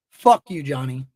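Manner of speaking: a sharp, loud real curse; loud angry curse. Real, not acted. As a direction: spit "Fuck you" out loud and hard. Cursing the hater directly.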